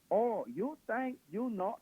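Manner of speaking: slow, high-pitched mock Asian accent; stereotypical Asian accent. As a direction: imitate an exaggerated movie Asian accent. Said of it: "it is the most stereotypical accent".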